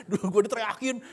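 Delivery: high, loud comic whine with laughter; mock grievance. Grown child recalls being yelled at by parents, mock protest. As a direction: complain loudly, half laughing.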